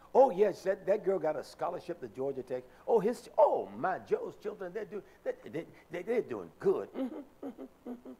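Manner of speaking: lightly mimicked gushing sister; mock proud, agreeable chatter; sister's way of talking. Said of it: "she will always say to me".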